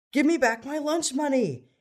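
high, loud bullying demand. A narrator's reading. Bully demanding money from classmate, loud and high. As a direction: demand it back from him. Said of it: "Tony demanded".

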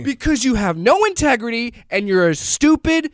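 angry, emphatic put-down; heated insult, hammered out; yelling rant. Real, not acted. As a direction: lay into them with contempt. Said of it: "yelling at Glenn Beck".

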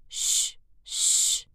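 sharp whispered shh; shushing. A narrator's reading. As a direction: hush someone sharply. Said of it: "the Hatter and the March Hare went".

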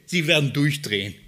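ordinary talk, nothing marked

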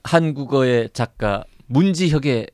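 chipper 1950s ad. Pretend. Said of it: "옛날에 광고하는 것처럼".

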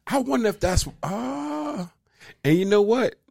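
laughing. Real, not acted. Laughing self-aware.

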